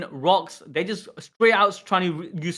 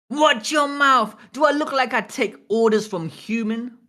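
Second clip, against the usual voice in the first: angry giant shout; 6 semitones higher than usual. Acted. Reading Loki's angry lines.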